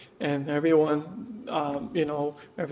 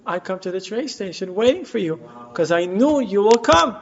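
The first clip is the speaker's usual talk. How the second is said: lightly voiced child, higher in pitch; a child's earnest certainty, rising in pitch; trusting child's insistence; 5 semitones higher than usual. Son to mother at the train station, trustingly insistent.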